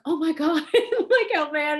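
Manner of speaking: high, loud, laughing gush; laughing and overwhelmed. Retold or imitated. Pearl Noir's reaction.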